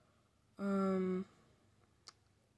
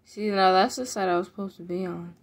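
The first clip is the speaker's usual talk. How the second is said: excited; 8 dB louder than usual. Real, not acted. Realizes correct side, emphatic.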